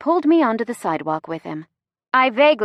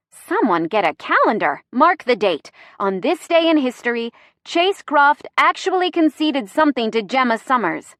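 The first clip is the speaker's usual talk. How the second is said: teasing; 5 semitones higher, 3 dB louder than usual. Acted. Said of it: "my voice teasing".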